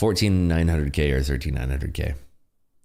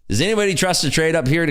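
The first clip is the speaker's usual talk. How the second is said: playful; 10 semitones higher, 4 dB louder than usual. Real, not acted. Joking rhetorical question to chat.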